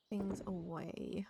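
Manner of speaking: murmured under the breath, slow; whispering while tidying away. Real, not acted. Tidying game items on stream, quiet whisper.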